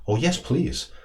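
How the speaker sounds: a flicker of hope breaking through; hopeful exclamation. Acted. Squirrel begging the owl for help, hopeful. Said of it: "exclaimed with a flicker of hope".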